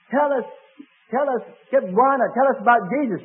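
high, loud eager crowd calling out; eager pleading. Retold or imitated. Villagers pressing the tired missionary, loud and eager. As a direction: beg him to tell them now.

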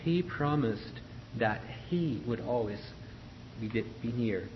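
"he" clearly sounded each time in "he promised that he would always"; stress on HE. Shown as a demonstration. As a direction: bring out the second "he" so it doesn't disappear. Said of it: "make sure that this word he".

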